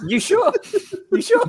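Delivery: teasing. Acted. Teasing about the accent.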